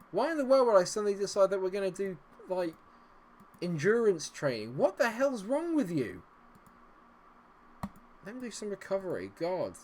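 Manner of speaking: high, loud, incredulous tirade; outraged rant. Real, not acted. Gamer scolding over endurance training, high outraged rant. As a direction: rail at them in rising outrage.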